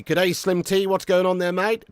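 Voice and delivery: lightly put-on Aussie greeting; Australian accent. Streamer greeting a viewer, put-on Australian accent. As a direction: greet him in a mild Australian accent, rising at the end. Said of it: "I did that Nazi accent".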